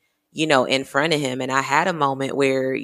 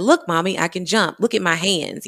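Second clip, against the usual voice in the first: put-on excited child; 4 semitones higher than usual. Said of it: "He said".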